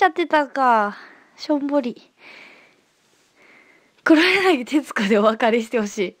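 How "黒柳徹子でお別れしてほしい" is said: lightly voiced Kuroyanagi Tetsuko. Viewer asks for a Tetsuko sign-off, lightly mimicked.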